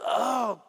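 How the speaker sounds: acted guttural groan of grief; guttural sob. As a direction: imitate a wrenching, guttural "oh". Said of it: "he had a guttural time".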